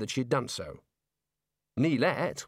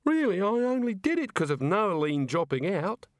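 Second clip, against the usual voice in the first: sobbing; 7 semitones higher than usual. Acted. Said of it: "Neilette sobbed".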